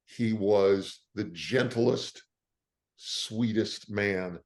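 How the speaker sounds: slow, sincere fondness; tender and unhurried; heartfelt tribute. Real, not acted. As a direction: draw out each word of praise. Fond tribute to Doctor J.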